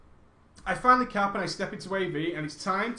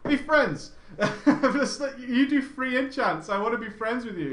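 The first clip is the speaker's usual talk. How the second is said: higher, pleading and laughing; begging the enchanter to be friends; playful begging; 4 semitones higher, 3 dB louder than usual. Retold or imitated. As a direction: wheedle like a kid asking to be friends.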